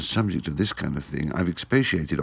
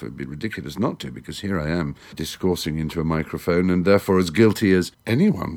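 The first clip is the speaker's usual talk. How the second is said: normal talking voice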